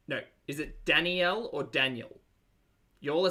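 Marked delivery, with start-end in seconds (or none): 0.8-1.5 Danielle in three beats, dan-ee-ELL; three-syllable name. Shown as a demonstration. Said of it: "is it three syllables or two". 1.6-2.2 Daniel as DAN-yul, weak last syllable; Daniel pronunciation. Shown as a demonstration. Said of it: "and then there's Daniel".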